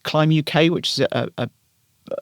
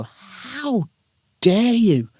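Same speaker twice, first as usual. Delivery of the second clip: high, indignant "how dare you"; indignant outburst; 9 semitones higher, much slower than usual. Pretend. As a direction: fire it back, outraged. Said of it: "you just wanted to go".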